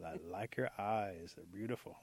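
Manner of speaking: slow, lingering compliment; admiring flirtation.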